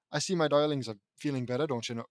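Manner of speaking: put-on quick, toned-down Minnesota accent; lightly voiced Minnesota mom. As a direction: rattle off a practised Minnesota line. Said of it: "I think I've got it".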